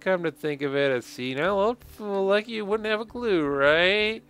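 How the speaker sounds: cheeky game-character voice; cocky youngster taunting. Acted. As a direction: taunt an old man with mock casualness.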